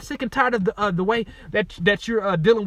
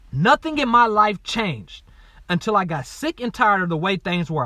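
reading aloud. Real, not acted. Author reading his workbook to listeners, measured read-aloud.

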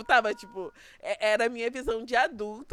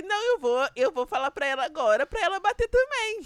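indignant mock outburst; 7 semitones higher, 4 dB louder than usual. Mock retort to the therapist.

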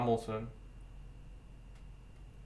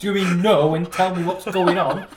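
laughing plea; 3 semitones higher, 7 dB louder than usual. Retold or imitated. Pleading with friend, laughing.

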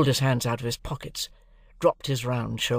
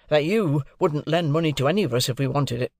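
mildly severe; 3 semitones higher, 3 dB louder than usual. Acted. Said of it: "meaning to be very severe".

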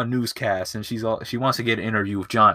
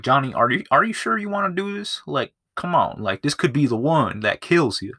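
concerned pleading; 5 semitones higher than usual. Retold or imitated. Retold worried plea to stuntman.

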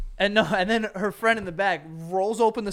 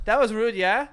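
imitating drunk girl; 5 semitones higher, 6 dB louder than usual. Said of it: "that's what she said".

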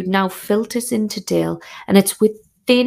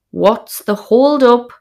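slow, raised call across the campsite; hollered question; 4 semitones higher, 4 dB louder, slower than usual. Retold or imitated. Wife hollering at her husband across the pitch, raised voice. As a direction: shout it over the wind. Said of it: "I holler at him".

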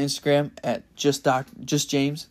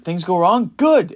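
loud, higher fired-up coach shout; coach's fired-up yell; 5 semitones higher, 8 dB louder, slower than usual. Retold or imitated. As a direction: bark it like a pumped-up lifting coach. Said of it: "a deep, mean voice, loud voice".

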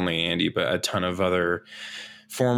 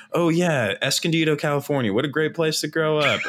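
higher, chirpy rambling aside; rambling commentator; 7 semitones higher than usual. Retold or imitated. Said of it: "Brian Dunseth's like".

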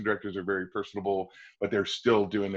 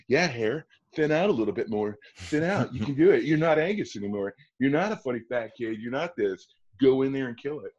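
self pep talk; 4 semitones higher, 3 dB louder than usual. Retold or imitated. Pep talk to himself in mirror.

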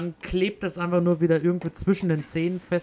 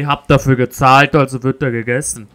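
indignant; 2 semitones lower, 12 dB louder than usual. Real, not acted. Indignant joking defence.

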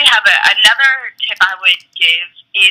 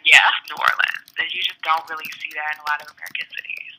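whispering; 3 semitones lower, 6 dB quieter than usual. Real, not acted. Aside in an unvoiced whisper.

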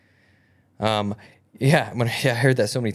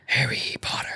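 breathy unvoiced take on Harry Potter; second, breathier Voldemort attempt; whispered Voldemort. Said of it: "Or is it more like".

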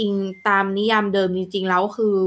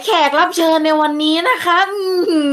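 high, louder, laughing tease; teasing laugh; 8 semitones higher, 5 dB louder than usual. Real, not acted. Host teasing the late guest on live stream, laughing.

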